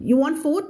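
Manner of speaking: FOOD said wrongly as short "foot", pitched high; high questioning learner's mistake; common mispronunciation. Shown as a demonstration. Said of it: "ออกเสียงผิดเยอะ".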